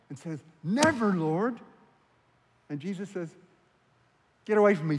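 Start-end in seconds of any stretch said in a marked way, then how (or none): 0.6-1.6 high, loud objection; rebuking protest. Retold or imitated. Peter pulling Jesus aside to correct him, rebuking. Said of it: "and rebukes him". 4.4-5.0 stern rebuke. Retold or imitated. Jesus rebukes Peter as Satan.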